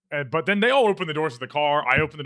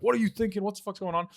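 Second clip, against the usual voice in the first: scolding cop; 7 semitones higher than usual. Retold or imitated. Retold cop scolding him.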